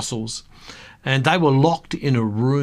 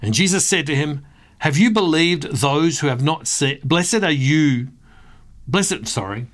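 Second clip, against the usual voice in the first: scripture reading; 2 semitones higher than usual. Acted. Reads John twenty aloud.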